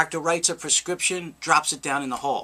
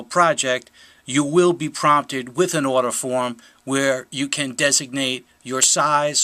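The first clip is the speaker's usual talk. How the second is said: measured, deliberate promo read; announcer read; 2 semitones lower, 3 dB louder than usual. Acted. Founder introduces a t-shirt fundraising campaign to backers, formal announcer read. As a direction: present it formally, each phrase set apart.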